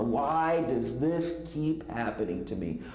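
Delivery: very slow, tearful repeated plea; mild imitated sob, drawn out; sobbing. Friend crying to Ted on the phone, slow tearful. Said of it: "she kept repeating this".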